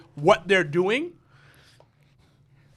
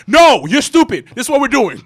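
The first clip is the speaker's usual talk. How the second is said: louder, slowed dismissive retort; mock argumentative; 3 semitones higher, 5 dB louder than usual. Podcaster replaying himself in an argument, mock dismissive. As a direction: shut the other person down, lightly acted.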